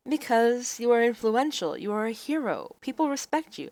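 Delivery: convince him, flustered; earnest heroine. Acted.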